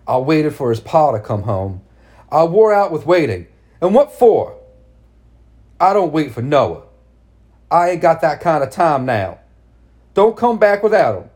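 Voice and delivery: high, loud, frantic mother; fierce, wild anger. Acted. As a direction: rail at her wildly. Mad mother's fierce speech.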